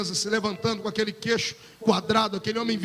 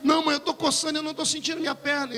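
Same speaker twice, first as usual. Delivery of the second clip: put-on distressed child; 4 semitones higher than usual. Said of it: "começar a chorar e".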